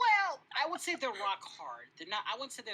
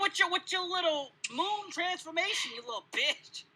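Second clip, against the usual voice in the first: mock-angry accusation; 8 semitones higher, 6 dB louder, slower than usual. Mock quarrel over a lost fight.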